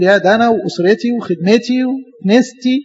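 slow, mildly smug self-praise; puffed up. Retold or imitated. God imitating the proud servant's boast, mildly smug and slow. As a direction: drag it out like a proud man admiring himself. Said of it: "أنت هتتنفخ وتقول".

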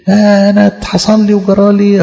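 whining sigh of complaint; mock self-pity. Mocking a self-pitying believer, whining. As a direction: sulk like a victim. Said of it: "صعبان عليه نفسه كده".

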